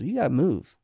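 ordinary delivery

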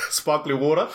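laughing punchline. Retold or imitated. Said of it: "the other person's like".

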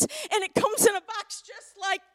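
high, emphatic child's protest, acted out; retold tearful protest. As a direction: imitate a crying kid's indignant complaint. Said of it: "he's crying and he's crying".

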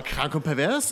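put-on eager, loud, thrilled kid; a fourteen-year-old hyped for gore; excited teen. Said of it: "eure kleinen vierzehnjährigen Gehirne sagen".

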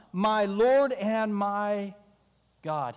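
very slow, reverent confession; awed Thomas. Acted. Thomas answers the risen Jesus in awe. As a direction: let the words sink in with awe.

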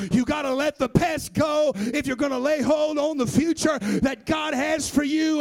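rhythmic, driving preaching cadence; full-force preaching. Real, not acted. Preacher setting the promise against the past, full-force preaching. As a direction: drive each phrase home with preacher's fervour.

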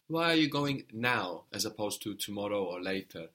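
"now" picked out against tomorrow or later; stress on now. Shown as a demonstration. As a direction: put the weight on "now". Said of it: "if you wanted to emphasize that now".

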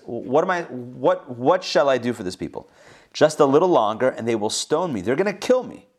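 mildly irritated, pitch jumping up; Moses. Acted. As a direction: play a leader getting exasperated. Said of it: "now he's getting irritated".

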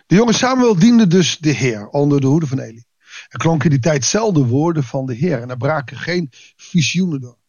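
measured, formal Bible reading voice; lightly formal reading from the pulpit; scripture reading. Acted. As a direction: read the passage to the congregation with calm weight. Reads Bible passage aloud.

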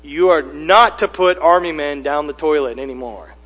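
lightly voiced stern parent; firm telling-off, stressed word by word; parent's rebuke. Parent scolding a child over army men, firm rebuke. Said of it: "You rebuke a child".

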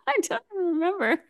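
high, real laughter through the words; helpless giggle at your own slip; laughing. Real, not acted. Guest amused by her own accent slip, laughing.

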